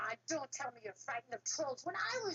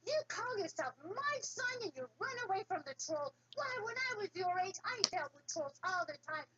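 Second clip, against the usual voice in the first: scornful father; 7 semitones higher than usual. Acted. Father scolds cowardly son.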